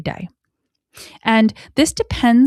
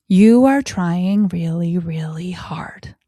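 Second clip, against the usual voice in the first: encouraging; 2 semitones lower, 3 dB louder, slower than usual. Shown as a demonstration. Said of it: "when a child is doing something".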